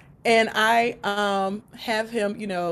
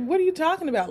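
astonished question; 8 semitones higher, much faster than usual. Retold or imitated.

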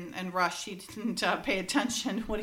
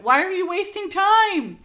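sharp, loud, impatient yell at him; impatient shout; 9 semitones higher, 9 dB louder than usual. Retold or imitated. Hurrying partner yells at him for wasting time. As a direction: bark it out like he's wasting precious seconds. Impatient line in retold scene.

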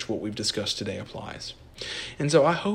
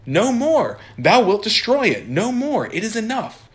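much higher and louder anguished cry; desperate outcry; 11 semitones higher, 8 dB louder than usual. Acted. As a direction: scream at him to stop. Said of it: "interrupted by Fides".

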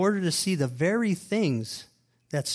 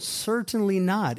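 "Certainly not" said slowly and forcefully, higher and with weight on each word; emphatic no; 5 semitones higher, 3 dB louder, slower than usual. Real, not acted. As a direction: stamp down "Certainly not", slow and pitched up.

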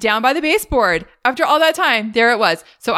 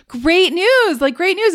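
upbeat announcement; 10 semitones higher, slower than usual. Retold or imitated. Acting pest inspectors' good news.

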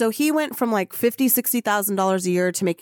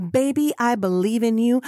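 doting encouragement; 3 semitones higher than usual. Real, not acted. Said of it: "Michelle is here to say that to you".

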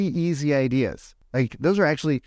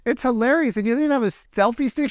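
imitating the mom; 10 semitones higher than usual. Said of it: "She goes".

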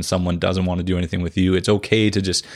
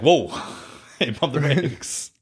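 mock pump the brakes; 4 semitones higher, slower than usual. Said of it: "sounds a bit more like".

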